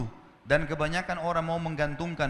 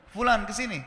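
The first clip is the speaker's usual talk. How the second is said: slightly raised retold call; calling someone over; 4 semitones higher, 3 dB louder than usual. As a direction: call him over, a little higher. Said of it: "Dipanggil sama Syekh". (panggilan memanggil orang, agak tinggi)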